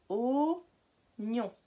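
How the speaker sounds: oignon in two drawn-out syllables; split into syllables. Shown as a demonstration. Teacher counting syllables for learners, syllable by syllable. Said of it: "Deux syllabes".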